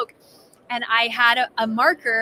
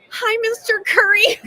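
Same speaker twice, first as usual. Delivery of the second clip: awkward greeting; 10 semitones higher, 6 dB louder than usual. Retold or imitated.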